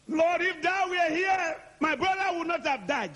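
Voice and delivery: hammed-up grieving sister; Martha grieving. Martha voiced lamenting.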